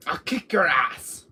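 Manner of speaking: slow, drawn-out threat in a put-on voice. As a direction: lean into the threat slowly in character. Threat said twice, differently.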